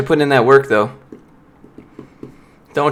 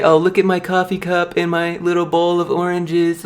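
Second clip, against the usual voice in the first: mocking Instagram poster; 5 semitones higher than usual. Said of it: "everyone posts on Instagram about".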